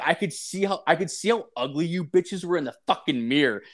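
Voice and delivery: retold snapping. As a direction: throw the insult back as you retell it. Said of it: "I s-, fucking snapped".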